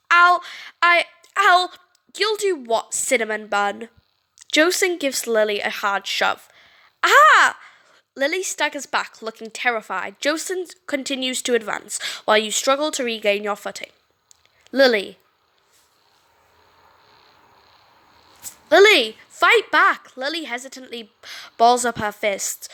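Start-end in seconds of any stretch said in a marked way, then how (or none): 0.1-3.9 mocking taunt. Bully Jocelyn taunts Lily. 7.0-7.6 sharp high yelp of shock; startled cry. Acted. Lily yelps as Jocelyn shoves her, sharp cry. 14.7-20.2 rally her to fight back; urgent call. Acted. Alyssa yells at Lily to fight back, loud.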